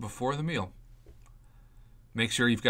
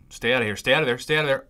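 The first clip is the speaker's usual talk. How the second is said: growing plea; 3 semitones higher, 5 dB louder, much faster than usual. Real, not acted. Begging the roll to miss green.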